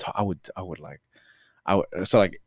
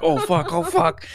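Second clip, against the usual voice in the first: raised-pitch comic alarm with a laugh; mock panic; 7 semitones higher, slower than usual. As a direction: blurt it like a kid caught out. Child caught by mom, retold.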